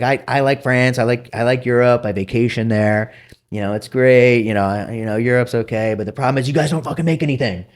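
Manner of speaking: lightly voiced curmudgeon, rising in pitch toward the blunt end; Sam Zell. Investor turning down the European guy, lightly mocked curmudgeon. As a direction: imitate a grudging investor, building to a high-pitched dismissal. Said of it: "kind of a curmudgeon-y guy".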